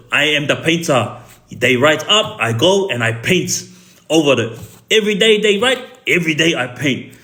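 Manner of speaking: lightly imitated Serbian accent, proud; a friend's Serbian accent, defiant and amused; shrugging Serbian accent, lightly done. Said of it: "this is the way he talks, his accent".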